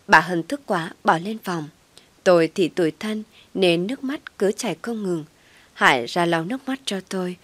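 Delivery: plain reading voice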